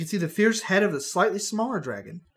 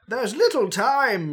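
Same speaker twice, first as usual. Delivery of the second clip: put-on urgent old wizard; 5 semitones higher, 4 dB louder, slower than usual. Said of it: "Merle cries".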